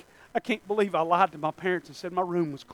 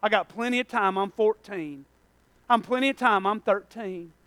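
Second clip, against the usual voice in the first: mock young excuse; 3 dB quieter than usual. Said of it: "you're lying to yourself if you say".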